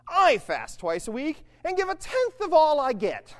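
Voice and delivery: high, loud, slow boast; puffed-up, drawn-out prayer; self-satisfied Pharisee praying. Acted. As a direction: proclaim your own piety grandly. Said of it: "prayed about himself".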